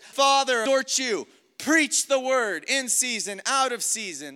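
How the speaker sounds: high, loud, emphatic charge; impassioned preacher's command; fatherly exhortation. Retold or imitated. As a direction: urge a young disciple into action. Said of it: "exhorts Timothy, he says".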